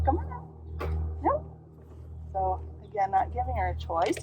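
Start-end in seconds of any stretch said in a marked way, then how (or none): 0.0-1.4 much higher coaxing call. Real, not acted. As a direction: lure her up brightly. Calling dog onto bench.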